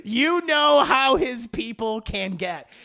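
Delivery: drawn-out repeat. Retold or imitated. Incredulous repeat after laughing.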